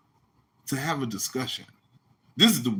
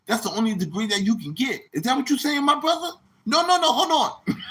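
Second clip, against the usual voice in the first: high, preachy put-on voice; mock pompous doctor; 7 semitones higher than usual. Mocking Doctor Reggie lecturing his critics, high and preachy. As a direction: lecture like a self-made doctor.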